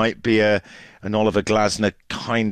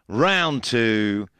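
ordinary talk

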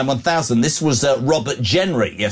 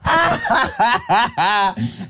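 real burst of laughter; 6 semitones higher than usual. Real, not acted. Host cracks up at caller.

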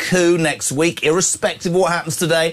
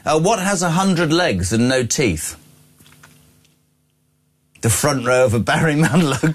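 ordinary talk, nothing marked

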